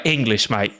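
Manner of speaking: imitated English driver's accent. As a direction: put on a thick English accent. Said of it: "English accent".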